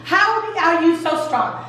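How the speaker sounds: light, put-on pleading; mock pleading. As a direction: imitate someone begging for the truth. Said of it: "So she pleads some more".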